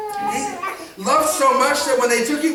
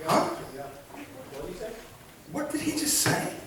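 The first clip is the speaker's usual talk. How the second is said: a baffled disciple who just misheard; confused disciples; 2 semitones higher, 7 dB quieter than usual. Retold or imitated. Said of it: "can you hear it in their voice?".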